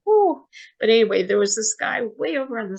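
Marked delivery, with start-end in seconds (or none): 0.1-0.5 high, loud imitated gasp of wonder; crowd's ooh. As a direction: mimic the whole crowd going ooh. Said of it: "everybody went".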